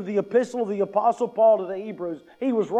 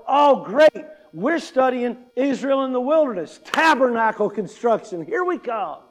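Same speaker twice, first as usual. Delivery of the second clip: mock enthusiasm; 3 semitones higher, 3 dB louder than usual. Preacher mocks an eager wilderness-study fan, sarcastic cheer. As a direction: fake delight at tabernacle construction. Mocking an eager Bible reader.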